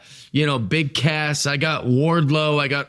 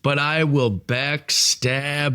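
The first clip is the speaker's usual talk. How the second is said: slow, scheming villain boasts; a hint of a gloating wrestling villain; heel promo. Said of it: "I'm the heel".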